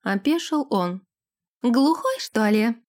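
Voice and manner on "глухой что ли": sarcastic. Acted. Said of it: "саркастично спросила она".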